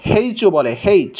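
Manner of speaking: হেইচ with a sounded h at the front; Australian "haitch". Shown as a demonstration. Teacher showing how Australians name H, aspirated haitch. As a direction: breathe an h before "aitch" in হেইচ. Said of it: "Australian যারা আছে".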